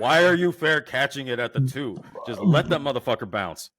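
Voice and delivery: high, loud disbelief; exasperated yell. Retold or imitated. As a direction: shout at the TV. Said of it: "'cause I'm like".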